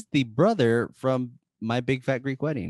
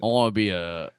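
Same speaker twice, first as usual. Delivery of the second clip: put-on Montana accent. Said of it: "can you do Montana accent".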